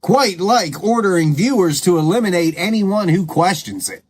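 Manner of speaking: mildly sing-song, lilting sarcasm; sarcastic. Real, not acted. Host mocking orders given to viewers, sarcastic. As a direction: spell out the mock praise with bouncing emphasis. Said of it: "I am being sarcastic".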